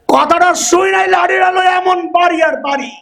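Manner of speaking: angry father. Retold or imitated. Angry father scolding his son.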